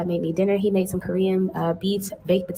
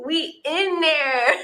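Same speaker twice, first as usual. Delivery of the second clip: drawn-out giggly delight; laughing; 5 semitones higher, 5 dB louder, much slower than usual. Real, not acted. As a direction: laugh through the words, slowly. First look at new tub.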